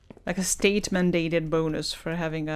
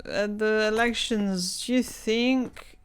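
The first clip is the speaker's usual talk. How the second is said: imitating a rude politician; 2 semitones higher than usual. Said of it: "He was saying so many profanities".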